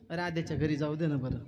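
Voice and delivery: mild imploring request; pleading. Acted. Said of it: "काकुळ ती येऊन म्हटला".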